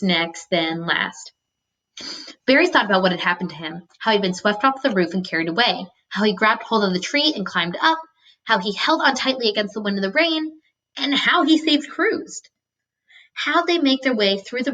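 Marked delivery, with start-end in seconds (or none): 2.5-10.6 steady read-aloud narration; story narration. A narrator's reading. Teacher reading a novel to students, storytelling voice. 11.0-12.4 and how he saved Cruz drawn out slowly and higher; slow down and lift the line to land it; emphasis on saved Cruz. A narrator's reading. Teacher rereading Barry's summary to class, slow and higher.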